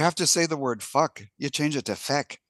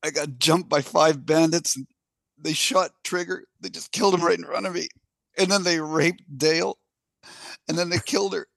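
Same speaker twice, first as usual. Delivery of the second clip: acted near-tears victim; almost in tears; 3 semitones higher than usual. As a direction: tell it haltingly, close to mild mock tears. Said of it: "like, almost tears. He says".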